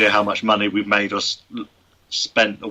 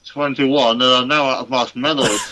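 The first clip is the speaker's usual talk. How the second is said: cheeks stuffed full; 3 semitones higher, slower than usual. Real, not acted. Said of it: "I imagine he's still chewing".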